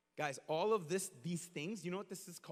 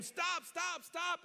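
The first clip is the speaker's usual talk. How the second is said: high-pitched yell at no more than talking volume; high, urgent mock shout; retold yell; 7 semitones higher, much slower than usual. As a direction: imitate yelling a frantic stop. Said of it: "'cause I'm yelling at him".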